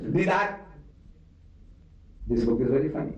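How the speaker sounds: imitating the boss. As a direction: mimic the boss's amused remark. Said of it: "And he speaks".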